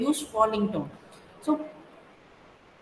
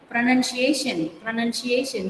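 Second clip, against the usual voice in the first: pronunciation lifted on its stressed later syllable; stress on third syllable. Shown as a demonstration. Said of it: "you have to go high".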